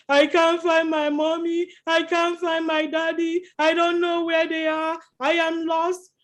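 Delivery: put-on crying lost little boy. Lost boy in the park tells John, mildly teary. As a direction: play the lost child, mildly whimpering. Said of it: "he saw a little boy crying".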